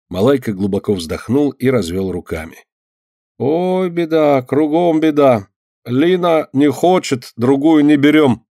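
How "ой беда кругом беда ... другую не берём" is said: lamenting helper. Acted. Malaika sighs over his trouble.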